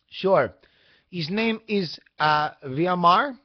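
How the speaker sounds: put-on woman on the phone in a Hispanic accent; Hispanic-accented, rising on the name. Shipping company woman giving the driver's name, Hispanic accent. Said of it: "a Hispanic accent herself".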